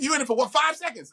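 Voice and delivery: high-pitched, disbelieving question; mock incredulous retort. Questioning his tiny movie role, mock incredulous.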